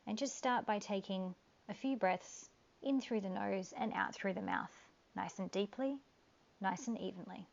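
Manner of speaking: calm guiding voice with long pauses; guided meditation. Acted.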